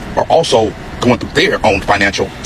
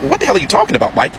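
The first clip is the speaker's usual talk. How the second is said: higher, mock-indignant woman's voice; woman's indignant retort; 9 semitones higher, faster than usual. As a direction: imitate her baffled outrage, pitched up. Woman's retort in retold phone call.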